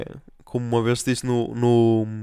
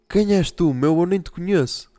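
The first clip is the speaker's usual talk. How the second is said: put-on really drunk; 5 semitones higher than usual. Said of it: "tinhas de estar, tipo".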